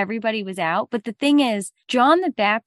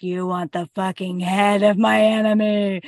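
scheming mother. Acted. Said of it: "the mother's like".

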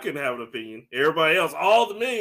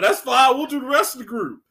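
mock casual bandmates; 9 semitones higher, 4 dB louder than usual. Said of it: "the other two was like".

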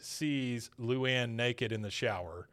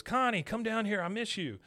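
put-on lovesick boy; 9 semitones higher than usual. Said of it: "Bobby hears her and goes".

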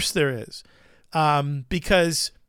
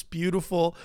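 ordinary talk

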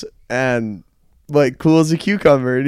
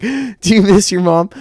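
put-on higher, slow question to a small child; mock-gentle interviewer voice; news reporter; 6 semitones higher than usual. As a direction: imitate a reporter asking a little boy. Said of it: "that news reporter goes to that little boy".

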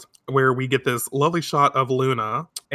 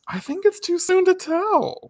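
much higher, put-on voice for the calm boyfriend; hammed-up Mamoru. Host mimicking Mamoru's calm logic to frantic Usagi, in a much higher put-on voice. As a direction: play him prim and overly reasonable.

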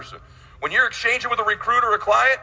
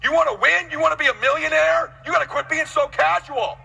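higher, urgent push to the crowd; rousing wake-up call; 6 semitones higher than usual. Acted. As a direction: shake them awake like a coach. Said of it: "I say".

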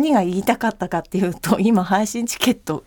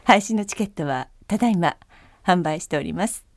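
flight announcement. Shown as a demonstration. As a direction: announce calmly to passengers. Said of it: "飛行機アナウンス風で".

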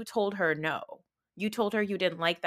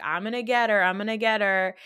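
mock Kyle; 6 dB louder than usual. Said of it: "Kyle does this thing where he's like".

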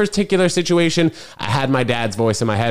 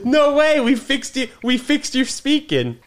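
much higher, squealing through laughter; laughing delight; 10 semitones higher than usual. Real, not acted. Grandson celebrating grandmother's fixed speaking, laughing delight. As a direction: crow with amazed laughter.

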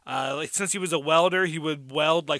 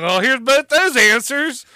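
sarcastic mock delight; 7 semitones higher, 8 dB louder, slower than usual. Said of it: "I'm like".

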